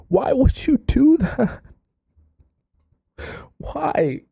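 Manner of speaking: high-pitched, drawn-out disbelief; pleading, stretched-out "why"; exasperated dismay. Real, not acted. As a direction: wail it in frustration. Exasperated at the writer's choice.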